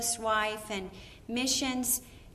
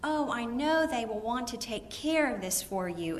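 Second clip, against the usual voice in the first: soothing receptionist calming a caller; understated, sincere sympathy; kind, gracious tone. Shown as a demonstration. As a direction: gently reassure an upset caller. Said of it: "by a kind word and a gracious tone".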